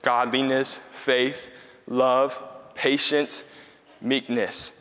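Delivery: slow solemn reading of scripture. Shown as a demonstration. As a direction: read the verse slowly and reverently. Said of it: "it says this".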